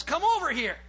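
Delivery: playful mating call; turkey come-on. Retold or imitated. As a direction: call them over playfully. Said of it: "He's trying to tell the females".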